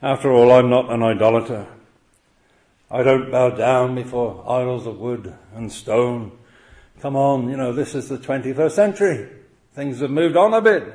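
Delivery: a light voicing of a sceptical listener; imagined doubter. Preacher voicing a listener who shrugs the commandment off, mildly. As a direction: brush it off like a modern sceptic. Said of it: "you may be sat there thinking".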